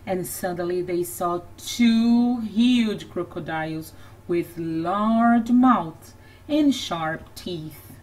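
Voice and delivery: lively, lilting storybook voice; animated picture-book narration; reading to children. A narrator's reading. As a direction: read it like a bedtime story to little kids.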